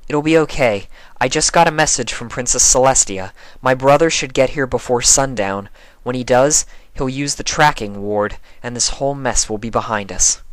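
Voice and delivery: a hint of a calm leader; lightly voiced reassuring unicorn; lightly voiced Twilight.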